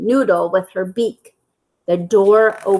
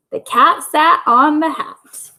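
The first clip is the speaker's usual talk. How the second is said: reading teacher; 3 semitones higher than usual. Shown as a demonstration.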